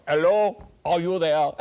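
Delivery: mock French caller on the phone; French accent. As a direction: play a Frenchman calling a friend. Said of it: "there's the French person".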